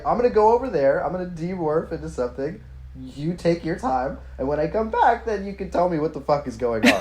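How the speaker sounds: high, pointed calm with a laugh; pointed Marco. Retold or imitated. Marco leaving Cassie, high pointed sarcastic patience. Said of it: "and then Marco's like".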